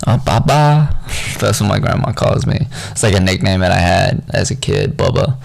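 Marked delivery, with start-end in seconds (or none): 0.1-0.9 put-on grandma's Asian accent. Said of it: "an Asian accent".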